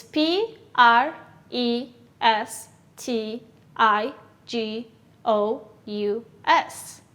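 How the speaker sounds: slow letter-by-letter spelling; careful dictation pace. Shown as a demonstration. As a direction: spell each letter apart. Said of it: "how do you spell it?".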